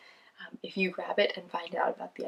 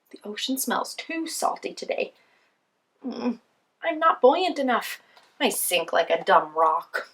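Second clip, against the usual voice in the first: grumpy penguin voice; 3 semitones higher, 5 dB louder than usual. Acted. Penguin complains about ocean.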